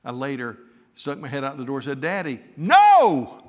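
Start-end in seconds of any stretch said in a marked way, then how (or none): 2.0-3.4 a long drawn-out high wail of "Daddy, no!"; desperate child's cry. Retold or imitated. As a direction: cry out like a heartbroken little boy. Child crying out to father.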